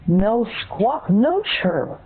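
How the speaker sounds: high-pitched squawky protest; protesting bird. Acted. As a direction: object like an indignant pretend parakeet. Bird caller protests agent hanging up.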